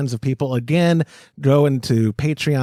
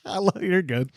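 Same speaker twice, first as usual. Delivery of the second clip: laughing; 13 semitones higher, 4 dB quieter than usual. Real, not acted. Laughing at James on camera.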